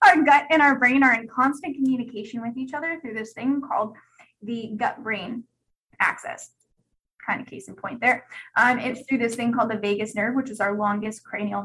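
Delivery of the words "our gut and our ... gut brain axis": loud sharp teacher voice. Real, not acted. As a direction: lecture it loudly, like a teacher. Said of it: "my teacher voice is on".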